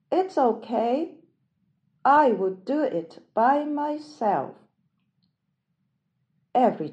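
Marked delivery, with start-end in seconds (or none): 0.1-4.5 high, brave little hen; cheerful hen on her own. Acted. Hen answers alone.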